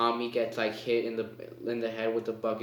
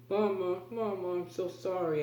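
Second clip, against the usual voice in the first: much higher, crying out to mama; anguished apology; 8 semitones higher than usual. Retold or imitated. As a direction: cry out your sorry to your dying mother. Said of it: "she was just like".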